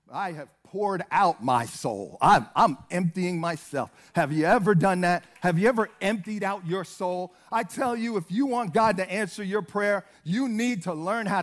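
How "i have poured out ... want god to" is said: forceful preaching. Real, not acted. Preacher asking church about emptying the soul, loud and forceful. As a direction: press the congregation hard, pitched down.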